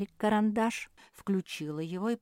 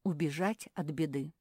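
usual speaking voice

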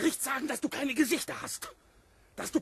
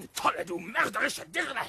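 furious shouted insult; angry shout. Acted. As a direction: hurl the insult at her. Proctor curses Abigail.

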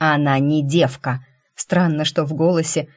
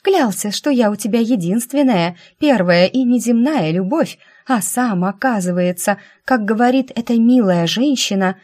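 high, loud wounded accusation; fake tearful accusation; 5 semitones higher, 4 dB louder than usual. A narrator's reading. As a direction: play the betrayed girlfriend, loudly. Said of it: "изображая ручьи слёз".

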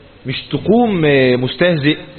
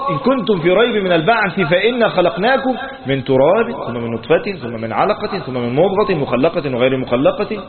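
Quran recitation. Acted. Teacher quoting the verse to students, chanted recitation. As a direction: intone the verse with rising cadences.

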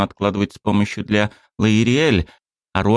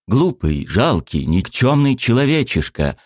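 heated insults; 5 semitones higher than usual. Acted. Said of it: "продолжала обзываться распалённый дракон".

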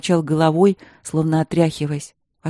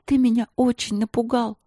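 coaxing; 6 semitones higher than usual. Acted. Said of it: "уговаривать его".

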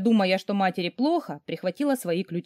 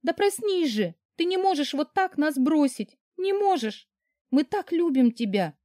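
desperate plea; 8 semitones higher than usual. A narrator's reading. Begs lifeless husband to wake.

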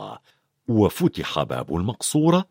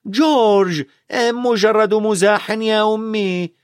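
higher, louder sharp call; lightly voiced scolding mother; mother's warning call; 10 semitones higher, 3 dB louder, slower than usual. A narrator's reading. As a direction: call his name sharply. Mother scolds, twin replies.

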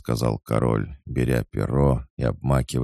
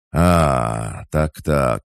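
louder, higher "so-so" of sudden realisation; the king realising the truth, exclaiming; knowing exclamation; 4 semitones higher, 6 dB louder, much slower than usual. A narrator's reading. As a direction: it all clicks at once. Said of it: "воскликнул Карл".

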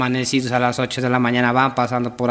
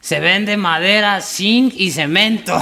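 slow, high, spelled-out "madera, zinc y cemento"; corrective reading; 5 semitones higher, slower than usual. Acted. Compadre corrects the misread sign, slow emphatic reading. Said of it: "Ahí dices".

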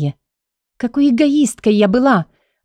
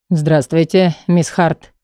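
flat robot voice, lower; 3 semitones lower, slower than usual. Acted. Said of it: "голосом робота произнёс телохранитель".

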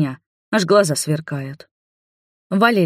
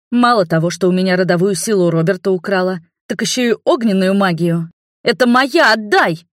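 angry demand; 3 semitones higher, 4 dB louder than usual. Acted. Princess demanding her stolen magic back, furious and loud. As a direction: rise to a shout on "Это моя, отдай!".

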